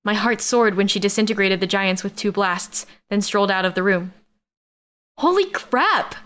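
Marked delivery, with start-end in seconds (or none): 5.2-6.2 high-pitched shriek of astonishment. A narrator's reading. Amber shrieking as Rose turns out to be a knight. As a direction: squeal it in shock, pitch way up. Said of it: "Amber shrieked".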